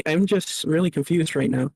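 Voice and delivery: tinny, metallic mic sound; talking from inside a tin can. Real, not acted. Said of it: "you sound like you're in a tin can".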